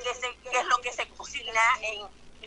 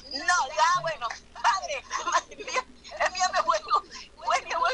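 higher, half-laughing call for fire; urgent prayer; 5 semitones higher than usual. Retold or imitated. Preacher calling on God against the demon, excited higher plea. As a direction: plead urgently for holy fire. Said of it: "Y le pregunto".

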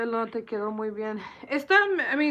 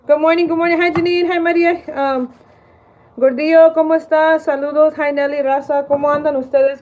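louder, higher shout-outs to viewers by name; loud greetings; 4 semitones higher, 9 dB louder than usual. Real, not acted. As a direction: call each name out brightly. Calling out names from the chat.

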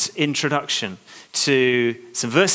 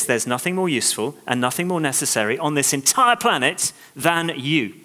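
sincere declaration. Retold or imitated. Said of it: "is saying this".

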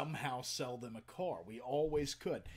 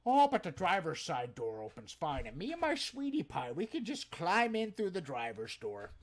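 customer's voice; 3 semitones higher, 5 dB louder than usual. Retold or imitated. Customer brushing off problems.

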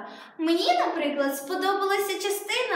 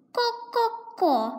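slow, higher ко-ко-ко clucked like a hen; hen clucking; 6 semitones higher, slower than usual. Acted. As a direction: cluck it out slowly, ко-ко-ко. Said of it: "Якщо я почну квокати".

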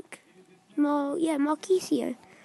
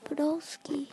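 whispered retry; 4 dB quieter than usual. Shown as a demonstration. Vlogger quietly retrying Podolski, whispered. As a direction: say Podolski under the breath, testing it. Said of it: "I can't say that".

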